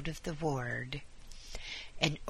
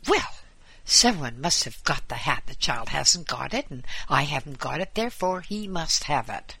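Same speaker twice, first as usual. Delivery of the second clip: angry; 7 dB louder than usual. A narrator's reading. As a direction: yell it in a rage. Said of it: "turning red and white with anger".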